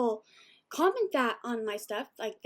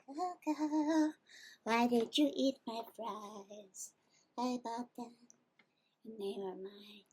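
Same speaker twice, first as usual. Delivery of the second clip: mock scolding; slower than usual. Real, not acted. Scolding dog for eating fries.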